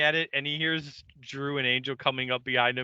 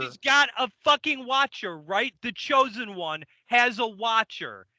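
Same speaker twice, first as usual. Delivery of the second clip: higher-pitched, exasperated insistence; furious explaining; 5 semitones higher than usual. Acted. Furious Bill explaining the watcher to his colleague, exasperated. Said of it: "Bill is furious".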